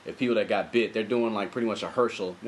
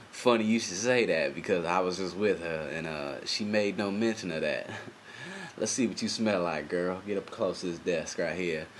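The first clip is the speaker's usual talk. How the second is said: Matthew McConaughey impression; 4 semitones lower, 4 dB quieter than usual. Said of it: "He's just like".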